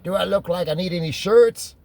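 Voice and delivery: high-pitched, incredulous mock retort; retold scornful snub. Star brushing off a rep's shirt offer, retold scornful snub. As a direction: throw the question back as an imitated put-down.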